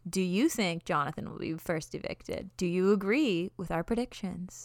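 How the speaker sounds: mock ASMR whisper, slow and breathy; hammed-up soft whisper to listeners. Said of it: "I feel like I'm doing those A S M R videos".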